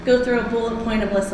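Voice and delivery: breathless from running, with a cold; talking while catching breath. Real, not acted. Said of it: "I'm out of breath from running across the park".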